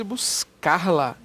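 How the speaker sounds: "buscar-la" drawn out slowly with the R kept; wrong form. Shown as a demonstration. Teacher testing students with a wrong form, "buscar-la" slow with R kept. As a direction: say "buscar-la" slowly, keeping the incorrect R before "la". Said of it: "E aí, tá certo isso?".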